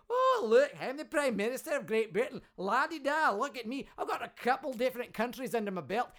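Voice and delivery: preening mock prime minister, loud at the start; a light parody of a smug politician. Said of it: "comes bounding around the border thinking".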